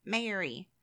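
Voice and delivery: MARY as "may-er-ee", Texas style; Southern US accent with a long first vowel in MARY. Shown as a demonstration. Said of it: "that's more like a Texas accent".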